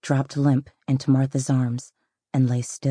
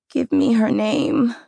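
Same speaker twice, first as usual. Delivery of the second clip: slow, high, loud demand; 9 semitones higher, 5 dB louder, slower than usual. Acted. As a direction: press her hard, higher and louder. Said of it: "she demanded".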